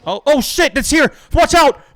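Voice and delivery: high panicked shout of alarm; grenade warning yell. Real, not acted. Grenade bounced toward him.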